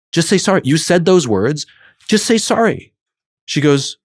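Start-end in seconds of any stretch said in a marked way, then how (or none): 0.1-2.9 higher-pitched, exasperated coaxing; frustrated plea. Retold or imitated. Upset friend coaching the other to apologize, frustrated pleading. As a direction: plead with mild retold frustration. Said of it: "I'm getting frustrated with you".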